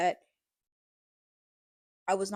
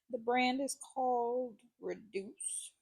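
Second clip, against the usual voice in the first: slow, strained voice while choking; 2 semitones higher, 5 dB quieter, slower than usual. Real, not acted. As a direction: squeeze it out slowly, half choking. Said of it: "water went down the wrong pipe".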